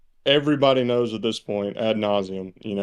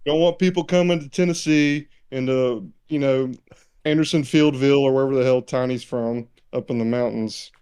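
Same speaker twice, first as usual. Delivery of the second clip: mock boomer; 4 semitones higher than usual. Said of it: "they're like".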